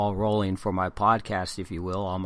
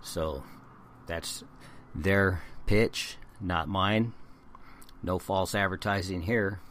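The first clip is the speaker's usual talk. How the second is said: hoarse, failing voice; voice giving out. Real, not acted. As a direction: voice fading out, strained. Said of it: "I'm losing my voice".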